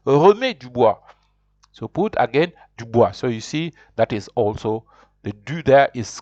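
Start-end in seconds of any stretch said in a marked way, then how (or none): 0.1-1.0 repeat-after-me model. Shown as a demonstration. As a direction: clear French model phrase for learners. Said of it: "So repeat after me".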